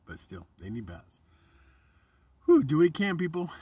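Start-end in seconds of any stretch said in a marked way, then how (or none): 2.5-3.5 louder and higher, a rousing call; rallying shout. Real, not acted. Vlogger urging viewers to help the homeless, loud rallying cry. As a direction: fire up the crowd.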